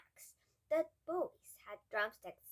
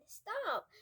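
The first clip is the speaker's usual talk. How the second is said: sharp high loud command; shouting; 10 semitones higher, 6 dB louder than usual. A narrator's reading. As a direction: shout it after them. Thieves chasing the boys.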